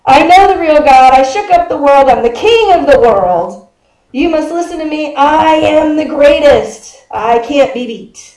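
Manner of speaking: lightly acted champion's proclamation, stretched endings; a touch of a boxer crowing over a win; Muhammad Ali. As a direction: boast to the crowd, slightly hammed-up. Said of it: "You have to say it in that voice".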